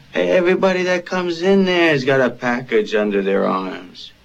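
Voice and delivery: irritated outburst. Acted. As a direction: snap back loudly at the questioner. Irritated answer to police questioning.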